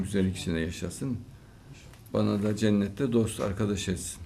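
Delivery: measured, level blessing in an even tone; prayer of blessing. Real, not acted. Host blessing a young questioner, in an unhurried prayer. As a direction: bestow blessings one by one, with pauses.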